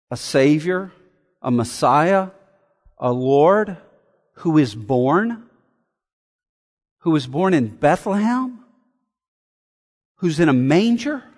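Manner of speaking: low, soft, each phrase rising like a question; incredulous questioning. Acted. Preacher voicing how unbelievable the birth seems, incredulous questioning. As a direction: lift "born", "Bethlehem" and "manger" in hushed disbelief.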